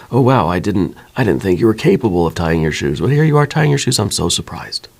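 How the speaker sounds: hammed-up amazed gasp, pitch jumping up on the second sentence; mock surprise. Dad mocking surprise at his daughter tying her shoes, hammed-up amazement. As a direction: fake astonishment, played for the joke. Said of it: "So a surprise would be like".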